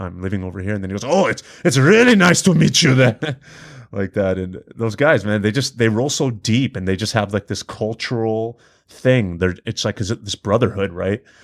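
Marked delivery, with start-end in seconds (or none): 1.0-3.2 bad Russian accent, raised and high-pitched. Retelling how he replied when told your family is from Iran, in a bad Russian accent. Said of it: "obviously I'm butchering the Russian accent".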